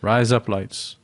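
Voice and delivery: lightly put-on Australian accent. Shown as a demonstration. Co-host trying out a trick phrase, light Australian accent. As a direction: say it with a hint of Australian. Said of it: "It's a good Australian accent".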